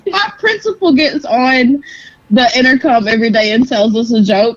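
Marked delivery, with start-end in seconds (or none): 0.1-1.8 slow, higher, sniffly after laughing; teary from laughing. Real, not acted. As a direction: get it out through laughter tears. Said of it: "Are you sniffling?".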